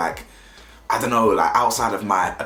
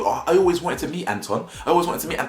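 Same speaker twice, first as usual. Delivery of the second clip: mock fan; 5 semitones higher than usual. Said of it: "like a fan".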